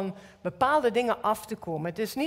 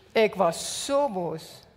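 slower, heavier take on zo boos; slowed-down repeat; 3 semitones lower, much slower than usual. Real, not acted. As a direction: drag the words out, stressing zo.

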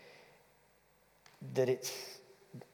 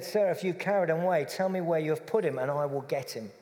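quick, louder retold plea; urgent, raised-voice quote; cross; 5 semitones higher, 4 dB louder, faster than usual. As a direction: rush the demand out, upset. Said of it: "I am cross".

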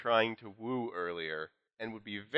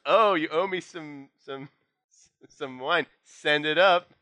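executive voice; 6 semitones higher, 6 dB louder, slower than usual. Acted.

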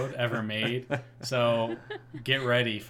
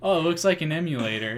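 quick, higher, louder mock voice; mock skeptic; 5 semitones higher, 6 dB louder, faster than usual. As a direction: play a doubtful onlooker, fast. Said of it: "It's like".

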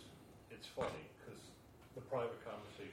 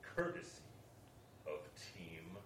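slow, loud announcer intro; airport announcement; 4 dB louder, slower than usual. Pretend. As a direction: present it like a PA announcement. Announcing the segment sponsor.

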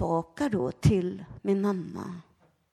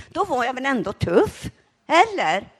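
excited challenge; 4 semitones higher, 6 dB louder than usual. Real, not acted. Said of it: "eller vad säger ni".

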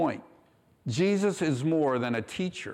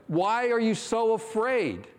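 Jesus asking; 8 semitones higher than usual. Retold or imitated. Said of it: "Matthew puts it this way".

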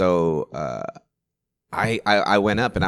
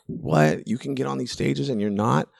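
incredulous; 6 semitones higher than usual. Retold or imitated. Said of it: "two-year comic Carlos would have been like".

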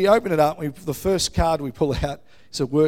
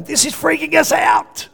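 much higher, louder excited exclaim; retold freak-out; 12 semitones higher, 4 dB louder than usual. Retelling to the church how they reacted in the car, excited. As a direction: relive the shock in the car. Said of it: "Steve and I were in the car going".

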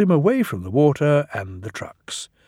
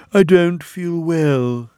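slow, higher-pitched sickly moan; groaning; 5 semitones higher, 5 dB louder, slower than usual. A narrator's reading. Sir Handel pretends to be ill next morning, groaning. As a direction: groan it out as if poorly. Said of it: "he groaned next morning".

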